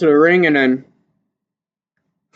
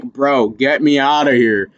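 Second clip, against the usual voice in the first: panicked plea; 3 dB louder, slower than usual. Retold or imitated. Boxer begging to get out before the fight, laughing plea. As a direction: beg to escape through laughter. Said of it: "And I'm like".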